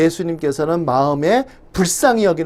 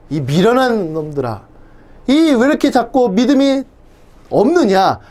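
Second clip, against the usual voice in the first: sharp scolding, louder at the end; stern rebuke; 4 semitones higher, 3 dB louder than usual. Retold or imitated. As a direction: scold foolish disciples, voice rising. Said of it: "이렇게 책망하시는 겁니다".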